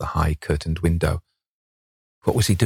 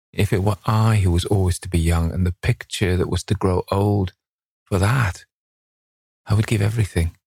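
higher voiced youth, slowing on the last line; a lightly voiced young man pleading with fate; young Dorian, yearning; 4 semitones higher than usual. A narrator's reading. Dorian's longing speech, higher voice.

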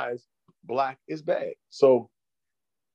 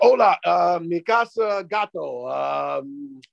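broken Spanish; 3 semitones higher, much slower than usual. Pretend. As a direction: fumble random Spanish words as a lost tourist. Fumbling broken Spanish for laughs.

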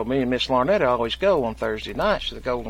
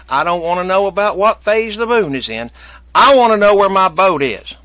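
higher and louder, building to an angry demand; mock anger; 7 semitones higher, 7 dB louder than usual. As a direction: lose patience, raise the voice.

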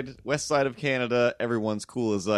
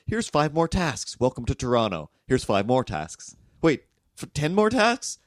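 busy Torontonian; 3 semitones higher than usual. Acted. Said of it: "But then I hit Toronto".

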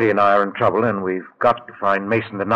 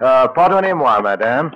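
put-on French; 6 semitones higher, 7 dB louder than usual. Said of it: "didn't suspect my French".

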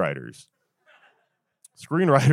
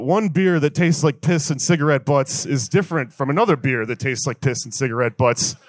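Dos Equis guy rewrite. Retold or imitated. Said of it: "Next Dos Equis movie's like".

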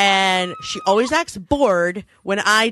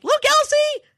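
high, bright, singsong taunting; gleeful showing off. Retold or imitated. Teasing Elsie with news she lacks, high singsong. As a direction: wave new gossip under her nose. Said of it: "it made me so happy to be like".

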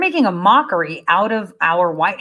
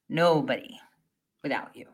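Nobody without you fading softer; quiet echo; 8 semitones lower, 10 dB quieter than usual. Shown as a demonstration. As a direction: let Nobody without you die away. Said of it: "repeated for emphasis".

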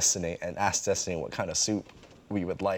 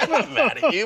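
higher, lightly reassuring; 14 semitones higher, 3 dB louder than usual. Retold or imitated. Reassures his girlfriend in a higher, lighter voice. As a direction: reassure her in a raised voice. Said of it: "And I was like".

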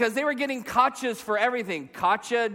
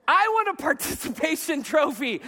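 higher-pitched mock-childish demand; petulant demand; 5 semitones higher than usual. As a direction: insist on getting your prize. Comic confession as childish demand.

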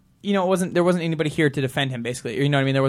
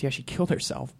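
sombre news; 3 semitones lower, 12 dB quieter than usual. Retold or imitated.

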